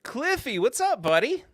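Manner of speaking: high, delighted hello to a friend; excited greeting. Real, not acted. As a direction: cheer out a happy welcome. Greeting a viewer by name.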